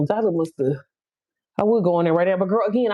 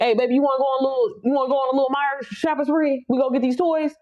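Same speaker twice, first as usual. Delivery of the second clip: lightly voiced, higher, eager mom offer; mom treating her kid; 4 semitones higher than usual. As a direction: toss it out like a treat for your child.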